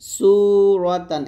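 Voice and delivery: সুরতান opening on hissing s, loud long u; sharp sin. Shown as a demonstration. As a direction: hiss the start of সুরতান and stretch it. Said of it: "সিনটা নিচে লাগাবেন".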